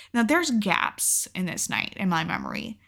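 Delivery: usual speaking voice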